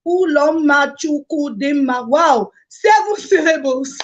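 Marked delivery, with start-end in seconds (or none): 0.1-2.1 slow, syllable by syllable; counted slowly. Shown as a demonstration. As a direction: spell the name out slowly. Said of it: "That's one, two, three".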